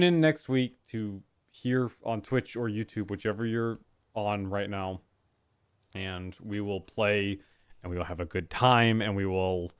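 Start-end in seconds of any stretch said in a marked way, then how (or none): 5.9-9.7 burpy voice after soda; talking through burps; burping after fizzy drink. Real, not acted. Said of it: "I keep burping 'cause I'm very tired".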